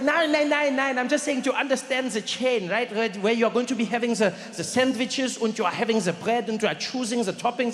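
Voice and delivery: a hint of German, insistent nein; light German accent. German friend explaining the sandwich chain, light German accent. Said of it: "He's like".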